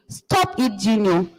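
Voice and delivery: father silencing his son in anguish. Acted. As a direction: cry out to stop your son, hurting. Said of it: "in anguish".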